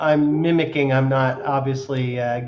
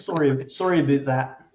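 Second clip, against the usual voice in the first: mimicked Canadian accent. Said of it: "you sounded more like Andrew Tate".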